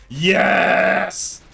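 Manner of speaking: high, loud shouted agreement; emphatic yes. Real, not acted. Answering a chat question, a loud high yes.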